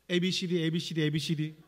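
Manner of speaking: mock tongues, syllables run together; imitated tongues prayer. Friend suddenly praying in tongues at the retreat, imitated. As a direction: chant the letters like someone praying in tongues. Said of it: "갑자기 방언기도가 터졌어요".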